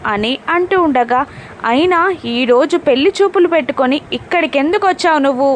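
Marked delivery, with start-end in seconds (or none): 1.7-5.5 raised a bit higher, angry reading; a light angry shout in the reading; mild mock yell. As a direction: narrator hints at a yell. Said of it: "అని గగన్ అరుస్తూ ఉంటాడు".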